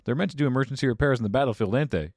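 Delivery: calling out cheerfully as Bob; Bob sketch voice. Acted. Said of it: "small sketch about emergency weld".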